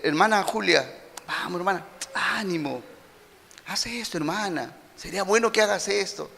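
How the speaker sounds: soft, coaxing encouragement; gentle encouragement. Shown as a demonstration. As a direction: coax the sister along kindly. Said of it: "la primera connotación tiene que ver con animar". (ánimo suave y cariñoso)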